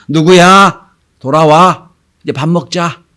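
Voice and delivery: lightly acted mother's call. Mother calls children in from play to eat, calling out. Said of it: "엄마가 부릅니다".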